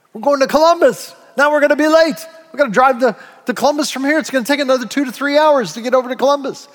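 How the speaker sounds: high, agitated acted protest; exasperated complaint. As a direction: scold the driver in mock dismay. Acts out passenger upset at detour.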